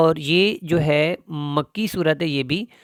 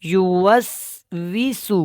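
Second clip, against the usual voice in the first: tajweed recitation; much slower than usual. Shown as a demonstration. Teacher recites word.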